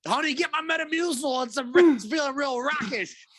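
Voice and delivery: put-on high, strained old man whine. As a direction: play a cranky old man asking for help. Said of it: "the old man noise".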